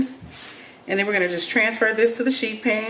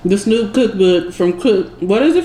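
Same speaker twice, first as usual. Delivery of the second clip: talking with a mouth full; words round a bite of food; 3 dB louder than usual. Real, not acted. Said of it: "talking with my mouth full".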